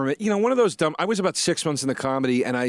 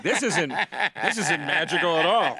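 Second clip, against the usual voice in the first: disillusioned; 3 semitones higher, 3 dB louder than usual. Retold or imitated. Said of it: "you're like".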